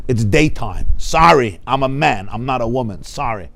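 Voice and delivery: plain blunt voice of the simple man; blunt simple certainty. Retold or imitated. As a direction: state the obvious like someone uneducated. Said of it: "you're just like".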